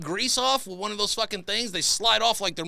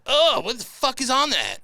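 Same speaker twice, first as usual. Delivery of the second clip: alarmed; 7 semitones higher, 5 dB louder than usual. Retold or imitated. Reacting to the tissue.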